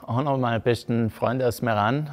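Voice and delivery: ordinary talk, nothing marked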